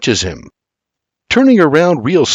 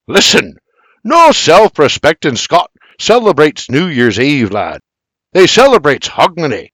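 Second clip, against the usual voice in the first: a mild Scottish bark, louder; 4 semitones higher, 4 dB louder than usual. Acted. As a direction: scold him like a drill sergeant. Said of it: "slaps hand on hips and barks".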